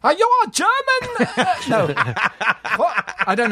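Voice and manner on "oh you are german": high Spanish accent; bad Spanish accent, high-pitched. Shown as a demonstration. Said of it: "Try it".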